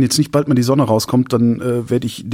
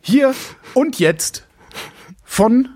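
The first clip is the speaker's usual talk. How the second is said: much higher, very slow, drawn-out intro; mock grand announcement; 7 semitones higher, much slower than usual. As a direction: announce him like a gala host. (pompös angekündigt, gedehnt)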